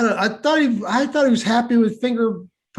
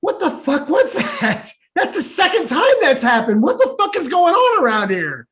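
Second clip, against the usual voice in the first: startled; 5 semitones higher than usual. Real, not acted. Reacting to noise.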